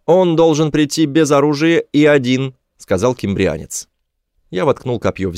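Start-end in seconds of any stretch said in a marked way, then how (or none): 0.1-2.5 high, loud creature voice; high-pitched alien negotiator; alien demand. A narrator's reading. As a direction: set the condition in a high alien voice. Alien sets terms, said the Kimbrian.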